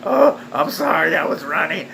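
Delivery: hammed-up pleading excuse; mock apology. Mocks runner's excuse.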